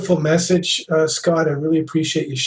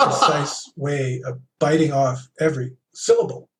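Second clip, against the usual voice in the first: deliberate, distinct phrasing with gaps; precise, bitten-off syllables. Shown as a demonstration. Host describing Captain Kirk's diction, precise and distinct. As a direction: bite off each piece of the phrase. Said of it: "very distinct way of speaking".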